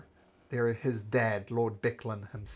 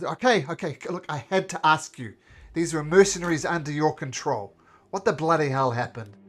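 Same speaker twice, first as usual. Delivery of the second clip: backing down mayor; 4 semitones higher, 6 dB louder than usual. Acted. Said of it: "Raven kinda comes out".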